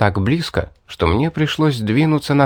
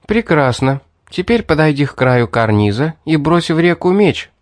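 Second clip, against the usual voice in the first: commanding; 4 semitones higher than usual. Acted. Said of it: "приказала она".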